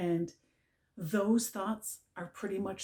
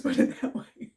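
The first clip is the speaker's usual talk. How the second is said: whispered with a laugh; whispered aside; 6 dB louder than usual. Real, not acted. Teacher confiding to the audience, whispering with a laugh. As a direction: let it slip out in a whisper.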